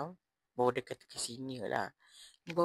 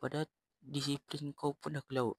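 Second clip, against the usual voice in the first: retold anger. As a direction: tell him off, voice raised. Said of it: "aku marah dia".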